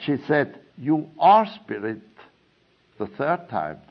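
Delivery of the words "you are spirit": ARE stressed louder in "You are spirit"; retold firm repeat, weight on ARE; emphatic insistence. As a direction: insist on ARE, imitating a teacher. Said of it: "in a very emphatic way".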